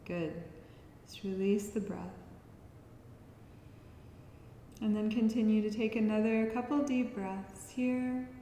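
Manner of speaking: soft guiding voice with long pauses; guided relaxation. Acted. Yoga teacher preparing listeners to chant, soft guiding voice. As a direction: ease them gently out of the breath. Leads breathing practice.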